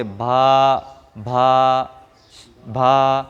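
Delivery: भा with a puff of breath from the chest; aspirated bha. Shown as a demonstration. Teacher shows the wrong chest-breathy भा. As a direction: push air on भा. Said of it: "सिर्फ बा पढ़ेंगे".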